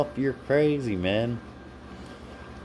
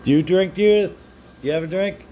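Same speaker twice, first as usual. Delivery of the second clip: loud, high question to the chat; excited call-out; 7 semitones higher, 3 dB louder, faster than usual. Real, not acted. Streamer eagerly calling to a viewer, loud and high. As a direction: call her name out, eager and up.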